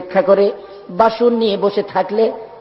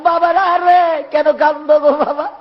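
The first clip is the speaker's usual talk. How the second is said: anguished tender question; 7 semitones higher than usual. Retold or imitated. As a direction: call out in pained, chanted sorrow. Uncle calls to his crying nephews.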